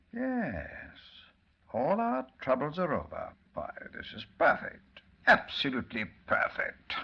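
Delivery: breathy, rising gloat into a shout; gloating triumph. Acted. Doctor Bly gloats to his gang in triumph. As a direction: savour every word of the win.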